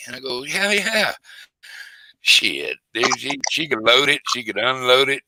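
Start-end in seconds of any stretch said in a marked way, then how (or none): 0.4-1.1 high-pitched, emphatic yes; retold assurance. Father answers his doubting buddy, emphatic assurance. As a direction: assure him, voice leaping up.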